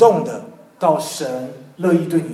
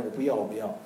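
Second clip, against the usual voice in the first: put-on childish whining; 7 semitones lower, 9 dB quieter, faster than usual. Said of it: "好像小孩在那边".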